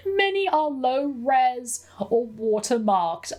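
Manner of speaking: slow and high, on the edge of laughter; tickled. Real, not acted. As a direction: drag it out, recovering from giggles. Still amused reading the email.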